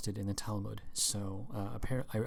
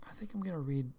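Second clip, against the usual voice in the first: whispered aside; 6 semitones higher, faster than usual. Real, not acted. Muttering to herself mid-search.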